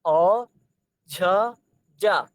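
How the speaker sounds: sounding out अ, झ and जा one by one; carefully voicing each letter alone; demonstrating sounds. Shown as a demonstration. Teacher showing students the Kashmiri sounds. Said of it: "आप देख लो".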